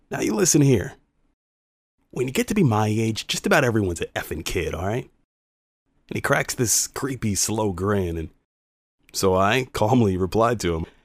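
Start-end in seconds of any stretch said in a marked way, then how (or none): 0.1-5.0 lowered, hushed, under-the-breath stage whisper. Recounting a man standing a foot from his face, imitating a man's half-whisper. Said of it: "he lowers his voice to a whisper and he says".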